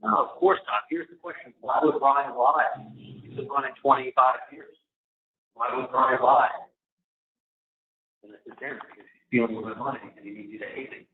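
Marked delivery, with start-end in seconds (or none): 1.6-2.7 slowed down, weighing each word; slow rhetorical question. Real, not acted. Asking the listener slowly why Ryan would lie. 5.5-6.5 much higher, disbelieving, leaning on "would"; incredulous question. Real, not acted. Pressing the listener again with high-pitched disbelief.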